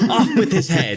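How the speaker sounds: shouted through a laugh, high and loud. Acted. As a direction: bellow it like a laughing queen. Joking royal decree.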